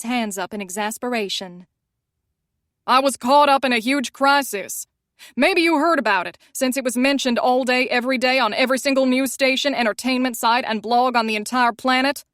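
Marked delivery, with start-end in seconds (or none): 2.9-12.2 exasperated. Acted. Sebastian exasperated.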